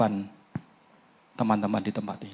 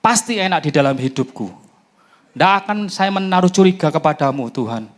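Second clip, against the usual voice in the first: loud, higher prayer at full force; fervent proclamation; 6 semitones higher, 7 dB louder than usual. Acted. Preacher closes the prayer before the church, loud fervent proclamation. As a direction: proclaim it with fire.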